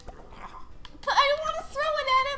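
slow, frustrated whisper. Real, not acted. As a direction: hiss it out in exasperation. Frustrated at air hockey.

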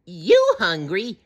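high, slow squawky question; drawn-out little flyer's disbelief; Petrie. A narrator's reading. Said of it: "Petrie whistled".

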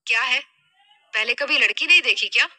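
mildly annoyed, quick challenge. Acted. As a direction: challenge the man staring at you, a touch irritated. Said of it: "नाराजगी से बोली". (हल्की नाराज़गी से)

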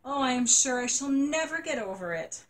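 put-on a child sure her world has ended; dramatic little girl lament; despairing girl. Janie despairing to aunt.

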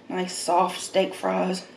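slow, soft, relishing; slow savoring. Real, not acted. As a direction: savor every word slowly. Savoring food.

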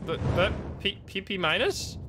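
halting, baffled question, rising at the end; stammering disbelief. Real, not acted. Player questioning the bad grade, stammering disbelief. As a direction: stumble over it in disbelief.

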